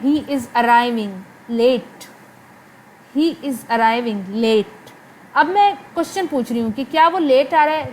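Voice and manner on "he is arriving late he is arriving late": slow, pausing before "late"; questioning tone. Shown as a demonstration. Teacher turning the sentence into a question. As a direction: ask it as a question. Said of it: "अगर यही मैं question पूछूँ".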